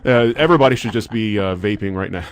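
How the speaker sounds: dry mock endorsement; tongue-in-cheek sincerity; sarcastic. Radio host jokingly praising vaping as totally safe, sarcastic. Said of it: "I'm being really sarcastic".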